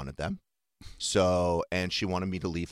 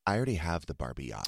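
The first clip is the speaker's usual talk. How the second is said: softly retold, lower gentle voice; sweet little daughter; 4 semitones lower, 5 dB quieter, faster than usual. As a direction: gently imitate a sweet child. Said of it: "she was really sweet about it".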